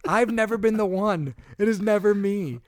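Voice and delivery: exasperated self-defence, voice climbing; indignant rant. Real, not acted. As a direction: insist it's never your fault, heating up. Indignant rant about car damage.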